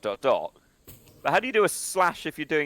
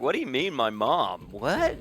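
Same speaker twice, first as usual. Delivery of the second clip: mock American. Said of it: "they're American. They'd probably be like".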